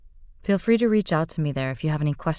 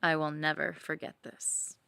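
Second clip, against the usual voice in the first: sensual story narration; 5 dB quieter than usual. A narrator's reading. Reading her fantasy to listeners, intimate narration.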